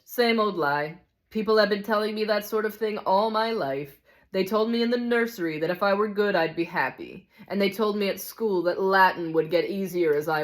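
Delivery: lightly voiced cynical grumbler; a touch of worldly-wise scorn, emphatic; hard-bitten ghost. Ghost recounting a lifetime of lies, lightly voiced cynical grievance.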